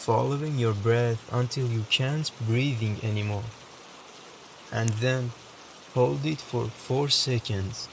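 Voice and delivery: calm meditation voice with long pauses; softly reassuring meditation guide, unhurried; guided meditation. Acted. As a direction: guide the listener gently, leaving space between phrases.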